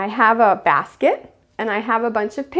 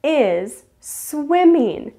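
high squealed yes, then slow stretched sentence; delighted teacher praise; so excited; 6 semitones higher, 3 dB louder, much slower than usual. Acted. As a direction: celebrate a small child's success, drawing out each word. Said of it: "I'll be so excited for them".

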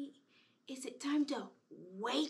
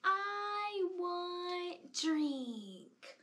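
put-on baby voice; 5 semitones higher, much slower than usual. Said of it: "baby's saying".

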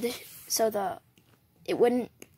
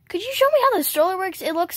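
high doll voice; 7 semitones higher, faster than usual. Pretend. Doll voice asks about stroller.

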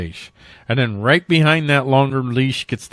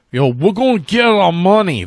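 higher, mushy-mouthed sketch-lawyer holler; Tracy Morgan lawyer; 5 semitones higher, 4 dB louder than usual. Retold or imitated. Host mocking police as a sketch lawyer demanding money, comic holler. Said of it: "That Tracy Morgan character, that Tracy Morgan lawyer".

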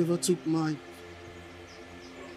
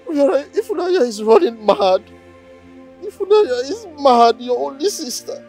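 louder, anguished scolding at the grave; grieving rebuke; 3 semitones higher, 6 dB louder than usual. Acted. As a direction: rail at the dead brother. Grieving sister scolds dead brother.

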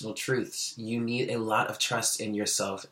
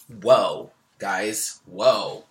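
amazed whoa; 6 dB louder, much slower than usual. Real, not acted. Reader startled by card message.

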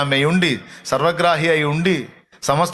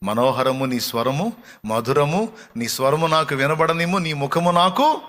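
woo gently, word by word; pleading tenderly; slower than usual. Retold or imitated. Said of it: "ఎంత బ్రతిమలాడుతున్నాడో".

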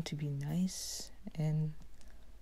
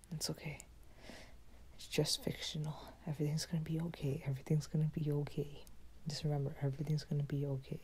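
self-soothing whisper; 3 dB quieter, faster than usual. Acted. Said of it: "But trying to keep my cool".

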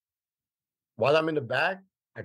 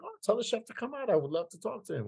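lightly voiced pompous customer; 10 semitones higher than usual. Customer summoning the chef, quoted.

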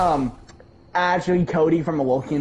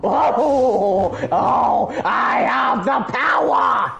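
manic excitement; 4 semitones higher, much slower than usual. Pretend. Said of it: "You sound like you're on fucking crack".

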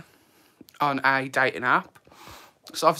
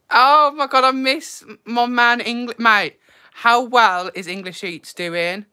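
much higher and louder, gushing over a friend; excited greeting; 8 semitones higher, 7 dB louder, slower than usual. Real, not acted. Greeting a missed friend in the chat, high excited gush. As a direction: squeal it like you've missed them.

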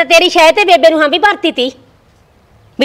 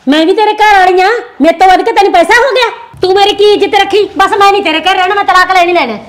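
angry; 4 semitones higher, 3 dB louder than usual. Acted. Wife shouting in quarrel.

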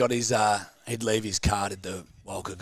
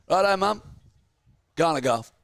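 lightly voiced old man; 8 semitones higher, 3 dB louder than usual. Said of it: "And he goes".

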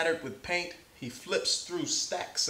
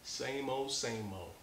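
put-on weary old-timer; 9 dB quieter than usual. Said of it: "That's what old people say".

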